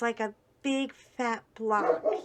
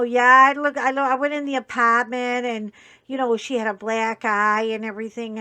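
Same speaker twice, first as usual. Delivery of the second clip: lightly put-on New Hampshire accent, louder; New Hampshire neighbor; 7 dB louder than usual. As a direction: retell the neighbor's words in a loose New Hampshire twang. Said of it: "in his New Hampshire sort of voice".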